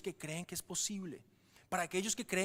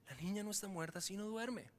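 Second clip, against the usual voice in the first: quiet assurance; 5 dB quieter than usual. Shown as a demonstration. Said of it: "que Jesús les dice".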